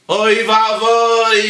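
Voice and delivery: loud, high, drawn-out lament; dismayed wail. Retold or imitated. Husband coming back to find his plate cleared, dismayed wail. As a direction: wail it long in mock catastrophe.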